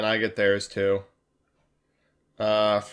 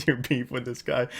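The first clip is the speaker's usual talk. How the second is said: softer, giggling reread of the line; laughing; 5 dB quieter than usual. Real, not acted. Streamer rereading a chat joke, laughing softly. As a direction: laugh through the words. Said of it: "I am finding it quite funny".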